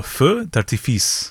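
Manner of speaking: Feu d'artifice said slowly in careful French; French pronunciation. Shown as a demonstration. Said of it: "do you wanna say it in French?".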